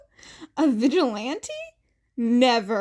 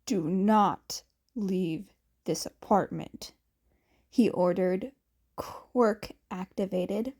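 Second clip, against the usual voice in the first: a hint of a lower, commanding Aizawa; lightly voiced stern Aizawa; 4 semitones lower than usual. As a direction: give calm orders in a lower voice. Aizawa giving orders.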